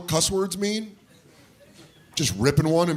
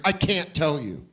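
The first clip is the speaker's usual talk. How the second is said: slow refusal; slower than usual. Acted. Kid refusing the interrogation.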